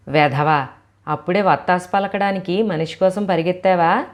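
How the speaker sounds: put-on a loud, sharp snap at the boy; mother turning on her son in rage; angry scolding. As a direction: scold him for fetching help.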